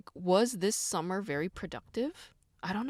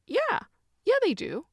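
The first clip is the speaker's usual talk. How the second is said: squeaky high, louder admission of yes; emphatic yes; 7 dB louder than usual. Real, not acted. Admitting to viewers her joints hurt, squeaky emphatic yes. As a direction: pitch the yes way up like a guilty confession.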